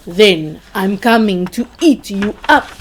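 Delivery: loud roaring troll threat. A narrator's reading. Troll roaring at the biggest goat, loud. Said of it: "roared the troll".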